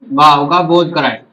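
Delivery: slow chunks with long pauses; dictating while writing. Real, not acted. Teacher writes out the rule for students, slow dictation. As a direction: dictate phrase by phrase, waiting after each.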